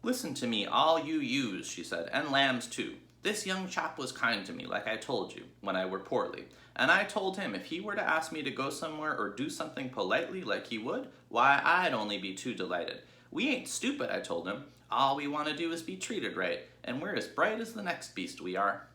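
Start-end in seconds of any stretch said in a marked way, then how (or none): 0.0-1.7 Ma calling to all the ewes, raised voice. Acted. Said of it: "Raising her voice". 2.1-18.9 Ma calling to all the ewes, raised voice. Acted. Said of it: "Raising her voice".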